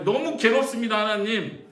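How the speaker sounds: high, loud acted anguish; anguished plea. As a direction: call out to God in torment. Acting out Job's anguished prayer.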